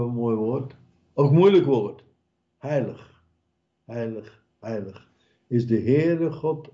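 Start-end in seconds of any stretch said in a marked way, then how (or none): 2.6-5.1 hushed repetition. Acted. Preacher savouring the word.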